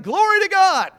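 loud, high cry of praise; joyful shout. Acted. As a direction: shout it out like a man just healed. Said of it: "came back to Jesus shouting".

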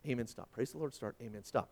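low-key, softly recited rehearsal; hushed mental note-taking; thinking to himself. A narrator's reading. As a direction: quietly run through the commands to yourself. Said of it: "So the pastor is thinking".

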